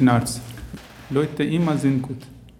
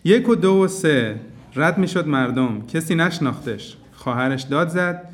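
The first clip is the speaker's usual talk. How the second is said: measured, rhythmic reading of a Persian poem; poem recitation; faster than usual. Acted. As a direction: tell the tale gently, line by line. Recites his Persian story poem. (rhythmisch vorgetragenes persisches Gedicht)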